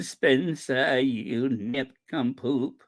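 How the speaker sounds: slow, quavering actress impression; hammed-up wobbly old-Hollywood voice; Katharine Hepburn. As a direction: draw each word out with a mock tremor. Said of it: "he sounds like Katharine Hepburn".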